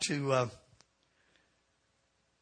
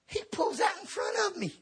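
mock yell; 3 dB quieter than usual. Retelling car pulling out.

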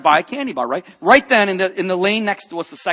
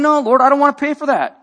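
loud, high protest at the Lord; arguing with God; 9 semitones higher, 9 dB louder than usual. Retold or imitated. Preacher retelling how he argued with God, loud protest. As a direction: push back hard, refusing to pay. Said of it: "I start arguing with God".

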